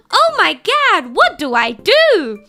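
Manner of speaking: panicked. Retold or imitated. Alone in a shaking building.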